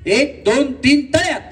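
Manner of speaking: high, punchy count into the command; calling game commands. Real, not acted. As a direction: call it out like a game host. Host calls out game commands.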